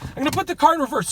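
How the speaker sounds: fast, out of breath. Real, not acted. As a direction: talk quickly, short of air. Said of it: "Sorry, I'm out of breath".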